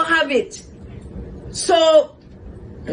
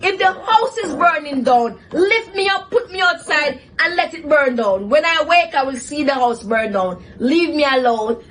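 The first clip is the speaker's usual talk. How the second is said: angry retort; 3 semitones higher than usual. Retold or imitated. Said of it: "I was so angry".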